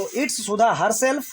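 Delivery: very slow, word by word, stress on herself; slow demo sentence. Shown as a demonstration. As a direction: dictate It's Sudha herself slowly, leaning on herself. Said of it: "आपको बोलना है कि सुधा है".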